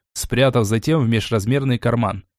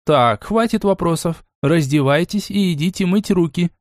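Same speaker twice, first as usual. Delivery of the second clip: strict; 5 semitones higher than usual. Acted. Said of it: "строго сказала тётя Бекки".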